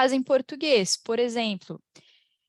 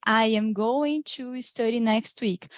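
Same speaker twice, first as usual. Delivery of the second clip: slow full form; slower than usual. Shown as a demonstration. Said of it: "você não vai ouvir".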